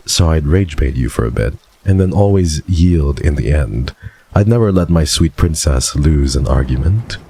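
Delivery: lightly voiced suave rogue; Silas voice. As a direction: purr it like a smug charmer. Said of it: "I'm doing the voice".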